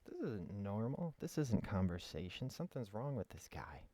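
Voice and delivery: lightly acted puzzlement, pitch swooping up at the ends; weirded-out listener. Listener reacting to a long silence in conversation, lightly acted bewilderment. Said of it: "you'd be like".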